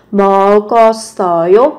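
먹었어요 said as meo-geo-sseo-yo, syllables joined; linked sounds. Shown as a demonstration. Teacher showing learners the linking, 먹었어요 run together as meo-geo-sseo-yo. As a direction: link each final consonant of 먹었어요 to the following vowel. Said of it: "Nối âm lên nhá".

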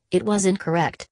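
"incorrect" pronounced like a heinous crime; damning INCORRECT. A narrator's reading. Brother condemning the speech, "incorrect" said as an accusation. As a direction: land "incorrect" as a mild but damning verdict. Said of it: "He pronounced incorrect as though the term described the most heinous".

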